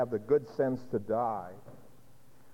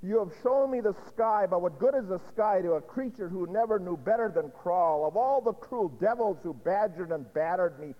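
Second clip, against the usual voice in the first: a touch raised, hurting and defiant; Aldonza's pained plea; 4 semitones higher than usual. Acted. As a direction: push him away while breaking inside. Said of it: "And she responds and says".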